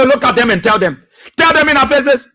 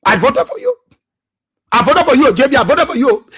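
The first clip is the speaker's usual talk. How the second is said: mock wailing; 2 semitones higher than usual. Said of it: "They are crying real tears".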